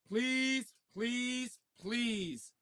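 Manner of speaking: soft, high little begging; softly praying for luck; hushed pleading. Real, not acted. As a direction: plead quietly, word by word. Begging for a good card.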